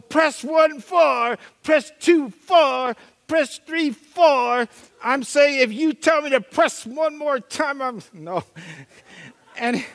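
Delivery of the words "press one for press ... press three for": slow, loud robotic menu voice; mock automated phone menu. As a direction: drone it like an automated phone system. Mimicking phone menu prompts.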